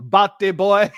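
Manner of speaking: laughing on the words, then a long laugh; real drawn-out fit of laughter; cracking up. Real, not acted. Cracking up at a chat joke.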